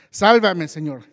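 a loud plea, sinking in the waves; crying out for rescue. A narrator's reading. Pedro, sinking, calls to the Lord: loud desperate cry. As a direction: call out to be saved, full voice. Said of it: "gritó".

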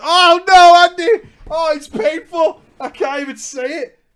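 loud, high cringing cry; pained outburst. Real, not acted. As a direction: wince out loud at the memory. Reading painful story, cringing.

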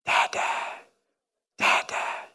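put-on soft, whispered baby calling; sleepy toddler call. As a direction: breathe Dad like a waking toddler. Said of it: "he'll go".

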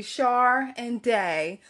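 "Shar and Day" said slowly, each syllable apart; "Shar and Day" as two separate, measured syllables; syllable breakdown. Shown as a demonstration. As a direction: slowly spell out the sound, "Shar" with an R, then "Day". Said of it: "Like, it's not Sa".

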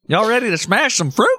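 high, showman crowd hype; hype man. Pretend. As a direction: pump up the crowd like Gallagher. Mimicking Gallagher hyping crowd.

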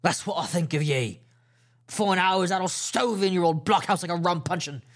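pirate vowing to storm the blockhouse; angry pirate threat. Acted. Silver's parting threat.

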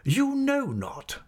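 high, slowly stretched disbelief; scornful echo. Acted. Headmaster challenges his assistant, scornful and disbelieving. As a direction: throw it back slowly in a high voice.

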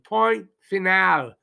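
slow French "Point final", pwan fee-NAL; French phrase. Shown as a demonstration. Podcaster repeats the French saying, slowly French. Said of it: "That's a French saying".

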